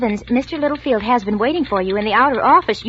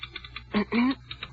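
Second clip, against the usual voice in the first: light cough; 3 semitones higher, 9 dB quieter than usual. Acted. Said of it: "I coughed. Lightly".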